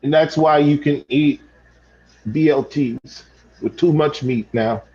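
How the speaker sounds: low, halting, choked-up apology; subdued and tender; sentimental. Acted. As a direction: get a little sentimental, voice dropping. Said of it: "I didn't mean to get so sentimental".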